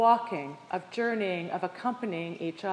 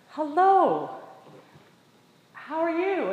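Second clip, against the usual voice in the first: friendly skier's hello; 7 semitones higher, 4 dB louder, slower than usual. Retold or imitated. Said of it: "incredibly friendly and welcoming".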